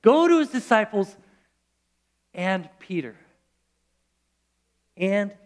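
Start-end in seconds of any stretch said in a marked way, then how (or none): 0.0-3.1 hushed, weighted "and Peter"; stress on and Peter. Shown as a demonstration. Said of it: "He says".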